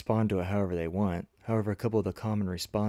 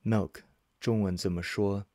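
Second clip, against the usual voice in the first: careful, spaced-out teaching delivery. Shown as a demonstration. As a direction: model question with a pause after "Milk". Model question repeated slower for learners.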